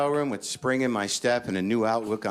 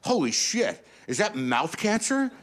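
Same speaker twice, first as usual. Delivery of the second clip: much higher, slow, alarmed cry; panicked outburst; 12 semitones higher, slower than usual. Retold or imitated. Comic telling himself a scare, in high panic. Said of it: "So, of course, I say".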